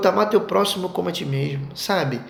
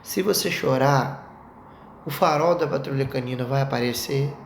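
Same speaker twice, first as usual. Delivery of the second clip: patient parent; 4 semitones lower, 3 dB quieter than usual. Retold or imitated. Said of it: "Aí eu falo assim".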